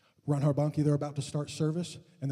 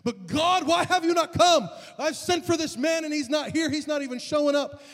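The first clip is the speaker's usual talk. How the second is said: high-pitched, acted complaint to God; calling out to God; 13 semitones higher, 6 dB louder than usual. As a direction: retell a desperate plea, raised high. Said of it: "he's calling out God".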